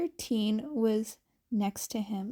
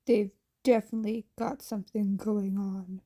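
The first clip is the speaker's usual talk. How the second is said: grumbled; 2 semitones lower, faster than usual. Acted. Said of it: "the underground hero grumbled".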